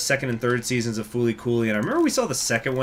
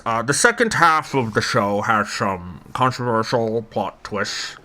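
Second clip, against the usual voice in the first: Churchill voice. Pretend. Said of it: "in Winston Churchill's voice".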